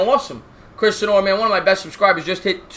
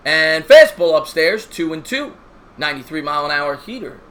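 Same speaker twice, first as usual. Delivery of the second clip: play-by-play announcer; 4 dB louder than usual. Acted. Live play-by-play call.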